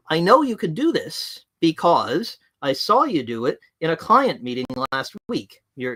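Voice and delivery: firm, measured reprimand to a colleague, with weighty pauses; firm reprimand demo. Shown as a demonstration. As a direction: deliver it calmly but with no softening. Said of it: "I was only illustrating what a one minute reprimand sounds like".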